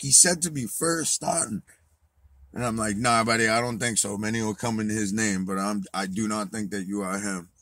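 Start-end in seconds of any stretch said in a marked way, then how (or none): 3.0-7.5 raised, louder, cocky brush-off; defiant dismissal. Retold or imitated. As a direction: talk down to him, unimpressed. Defiantly rejecting Jesus claim.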